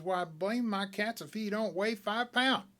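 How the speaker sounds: slow, amazed exclaim; surprised. Acted. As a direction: marvel at how heavy. Smiley surprised at the weight.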